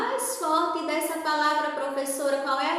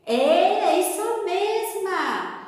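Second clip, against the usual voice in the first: encouraging praise; 4 semitones higher, 3 dB louder, much slower than usual. Pretend. Cheering the pupil's imagined answer.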